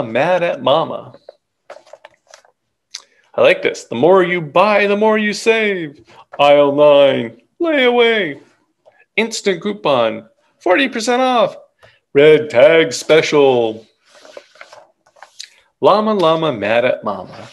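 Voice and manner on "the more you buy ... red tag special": store announcer. Acted.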